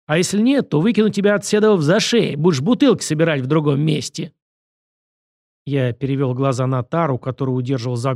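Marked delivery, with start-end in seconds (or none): 0.0-4.3 higher-pitched, lightly acted threat; domineering director laying down terms; bullying director. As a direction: lay down the deal like a boss.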